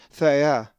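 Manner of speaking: "thea" said slowly with stress on the final syllable; Greek pronunciation. Shown as a demonstration. Teacher demonstrating Greek word to students, clear stressed pronunciation. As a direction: model "thea" for the learners, accent on the second vowel. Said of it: "the accent is over the second epsilon".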